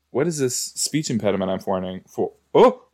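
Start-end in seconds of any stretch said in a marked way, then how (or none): 2.5-2.9 sudden high, loud oh; a startled yelp. Real, not acted. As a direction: jump at your own voice. Startled by own speech.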